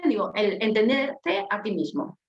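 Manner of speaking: slowed down, each word placed; measured list item; slow, measured statement. Shown as a demonstration. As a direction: lay it out slowly like a heading. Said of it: "me gustó ponerlo en orden".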